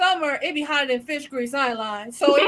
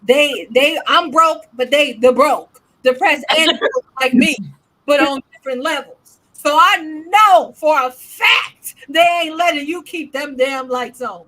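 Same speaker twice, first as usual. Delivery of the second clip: scolding godson; 7 dB louder than usual. Retold or imitated. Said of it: "I said".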